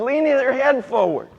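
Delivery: pushy instruction hollered from the stands; imitated dad calling out. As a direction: call it out loudly like a dad at the game. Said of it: "And his dad says".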